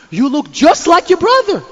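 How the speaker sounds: imitating Mrs. Finkelstein. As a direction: play up the neighbor lady's surprise. Mother voiced in a story.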